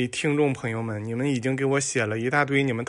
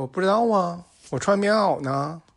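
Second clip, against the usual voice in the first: innocent reply; 5 semitones higher than usual. Acted. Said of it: "小明说".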